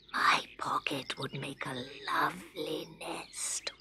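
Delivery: soft unvoiced whisper. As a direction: whisper it gently to the bird. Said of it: "whispered Scarecrow".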